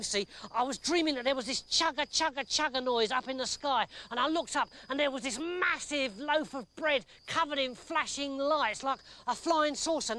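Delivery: high, fast anxious dream retelling; anxious soldier. Acted. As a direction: tell the nightmare in a rush.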